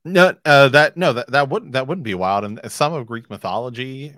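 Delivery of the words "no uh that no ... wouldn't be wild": loud excited burst. Real, not acted. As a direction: blurt it out, thrilled. Excited agreement.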